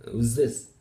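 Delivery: "who's this" with the TH turned into a Z; progressive assimilation. Shown as a demonstration. Teacher showing fluent speech, "this" in "who's this" starting with Z. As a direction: run "who's this" together as "who's ziss". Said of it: "sound like some sort of an".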